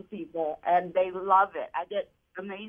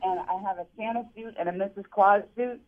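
muffled phone line; underwater. Real, not acted. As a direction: voice bubbling through water. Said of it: "your phone sounds like it's underwater".

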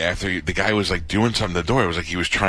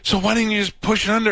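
incredulous question. Retold or imitated. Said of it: "I go".

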